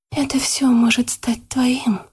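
seductive whisper. A narrator's reading. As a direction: tempt him in a hush. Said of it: "прошептала ему на ухо Яна".

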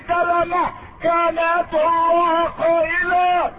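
high, ringing sermon narration; impassioned pulpit storytelling; preaching at full force. Real, not acted.

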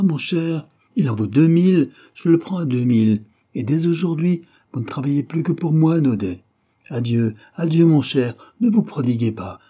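a painter mimicking a greedy dealer, overdone; mock dealer's patter. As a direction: play the wheedling dealer for laughs. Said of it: "se mit à jouer la scène".

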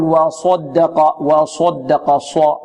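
ص in وصدق rounded toward "swa"; lip-rounded sad. Shown as a demonstration. Teacher shows the mistake to avoid, lip-rounded sad. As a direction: purse the lips on the ص of وصدق, slowly. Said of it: "نحذر من ضم الشفتين".

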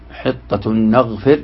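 حطة نغفر slowed, the n melted into the following n with a long nasal hum; nasal merging demo. Shown as a demonstration. Teacher demonstrating ghunna to students, slow and nasal. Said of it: "وأربعة بغنة".

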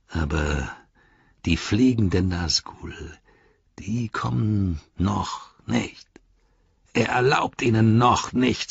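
lightly voiced orc, emphatic; a hint of an awed orc; Grishnach, ominous. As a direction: warn the rival with self-importance. Grishnach explains the Nazgul.

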